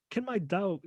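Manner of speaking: an unplanned hint of an American accent on Can my dog; a slight American twang on Can my dog, said by accident; accidental American accent. Real, not acted. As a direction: slip briefly into an American lilt on Can my dog. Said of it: "A bit American there".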